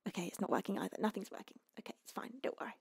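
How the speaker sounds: very soft, near-whispered self-reassurance through tears; trying not to cry. Real, not acted. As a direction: give up quietly, fighting tears. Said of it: "I'm trying not to cry".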